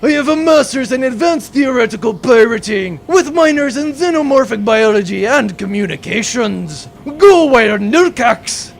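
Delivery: loud, proud bragging; boastful pirate captain. Acted. Pirate captain bragging about his college, loud and proud. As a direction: puff up and cheer your old school.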